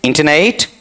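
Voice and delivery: इंटरनेट as "inta-neit", rising; इंटरनेट without r, last vowel a diphthong; first variant. Shown as a demonstration. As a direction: end इंटरनेट on a gliding "neit". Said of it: "पहला क्या है".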